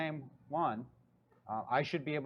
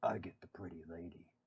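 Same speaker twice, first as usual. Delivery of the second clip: very low, hushed, soft voice; 9 semitones lower, 8 dB quieter than usual. Narrating an unseen voice the listeners hear as they approach: low voice. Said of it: "you hear a low voice say".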